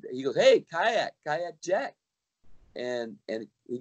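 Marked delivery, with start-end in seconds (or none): 0.4-2.0 calling out across the room; hailing a buddy from afar; retold yell. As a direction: friendly shout of a nickname. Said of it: "So he yells me that".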